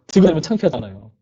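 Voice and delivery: laughing while admitting the embarrassment. Real, not acted. To the youth group, laughing about being embarrassed by a Bible.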